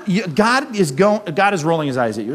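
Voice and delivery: normal talking voice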